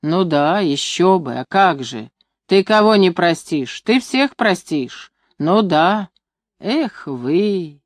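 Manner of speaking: plain reading voice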